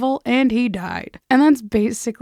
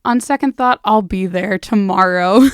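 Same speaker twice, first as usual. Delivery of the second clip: decisive; 9 dB louder than usual. Retold or imitated. Old woman's sudden decision.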